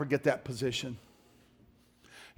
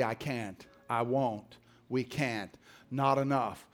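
defeated self-talk; 4 semitones lower, 5 dB quieter, slower than usual. Retold or imitated.

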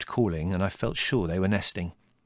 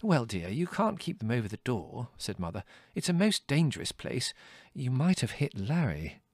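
fussy mother; 3 semitones higher, 3 dB quieter than usual. Acted. Mother ruling on horns.

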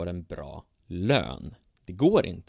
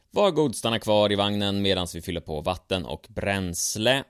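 calling out; 5 dB louder than usual. Acted. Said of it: "ropade en röst från loket".

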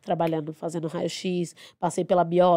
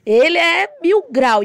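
much higher, louder, slow gushing praise; enthusiastic; 9 semitones higher, 9 dB louder, slower than usual. Real, not acted. Dancer praising her stage partner Marquinhos, gushing and loud. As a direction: rave about him.

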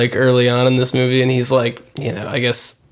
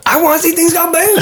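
put-on higher, faster babyish whine; whiny man-child; faster than usual. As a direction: whine it like a big baby. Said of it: "That's how he talks".

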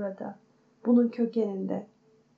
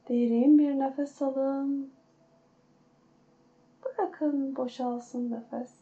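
guided meditation. Acted. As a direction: ease them into calm breathing. Leads a guided breathing meditation.

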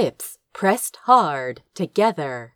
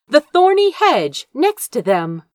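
plain reading voice

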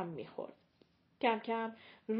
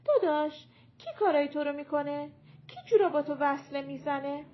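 imagined plea to brother; 5 semitones higher, 7 dB louder than usual. Retold or imitated.

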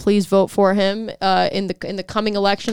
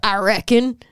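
mock Southern reckon; slower than usual. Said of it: "I'm thinking of Sling Blade".

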